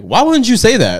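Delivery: high, slow, laughing cop asking why; laughing disbelief. Retold or imitated. Cop laughing at the drunk guy, high and slow. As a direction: laugh through the question.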